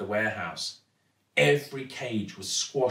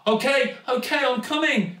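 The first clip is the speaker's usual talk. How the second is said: high, raised, flustered reply; hurried call back; 11 semitones higher, 4 dB louder than usual. A narrator's reading. Girl answers dad's urgent shouts.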